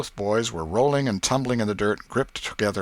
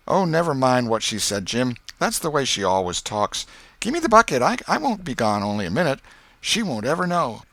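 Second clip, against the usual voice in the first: put-on high, loud boyish voice, pushy; young Tom, persuading; 6 semitones higher, 5 dB louder than usual. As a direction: brush off the worry and press on. Tom's voice in the story.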